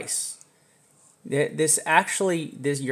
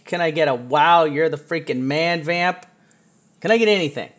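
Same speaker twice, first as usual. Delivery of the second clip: hype call; 3 semitones higher, 5 dB louder than usual. Real, not acted. Begging chat for praise.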